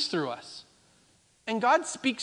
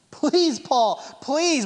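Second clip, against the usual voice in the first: a touch of mock begging, slightly higher; pleading; 3 semitones higher, 3 dB louder, much slower than usual. Friends begging Paul not to go to Jerusalem, mild pleading. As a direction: gently plead with him not to leave. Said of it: "they're pleading with him".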